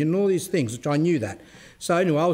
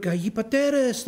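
high, slow shouted Greek cry; mock shout in Greek; 8 semitones higher, slower than usual. Zealot woman shouting in the street, high mock shout. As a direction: cry out Hipateres like she's calling down the street. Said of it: "she was shouting in the street".

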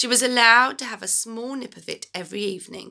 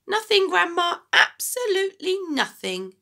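calling back; 10 semitones higher than usual. Acted. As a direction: call back innocently through the wall. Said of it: "he called back".

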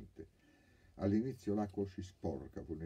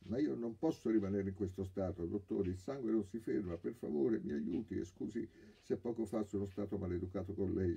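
whiny plea; 5 semitones higher, 3 dB louder than usual. Acted. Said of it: "si lamentava il ladro".

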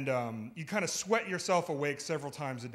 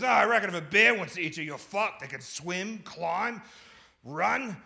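lightly voiced Aussie mate; 2 semitones higher, 3 dB louder than usual. Roommate warns about bears.

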